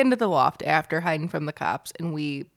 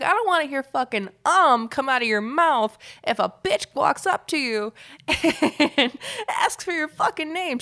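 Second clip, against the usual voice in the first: imitating Aunt Mickey; 8 semitones higher, 3 dB louder than usual. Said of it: "She's like".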